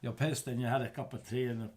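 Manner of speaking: hammed-up Kiwi accent, laughing at the end; a jokey Kiwi accent, cracking up by the end; mock Kiwi accent. Ribbing his co-host about a cup of tea, in a mock Kiwi accent. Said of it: "that's not even a Kiwi accent".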